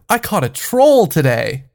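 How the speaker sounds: acting out an eager announcement; a touch of childlike pride; proud son. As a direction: excitedly share big news with mom. Son proudly announces his catch.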